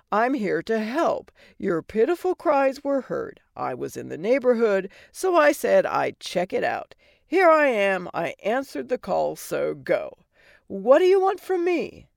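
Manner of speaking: brash, mocking fairy godmother; sassy godmother voice. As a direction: tease her like a sarcastic old fairy. Godmother impatient speech.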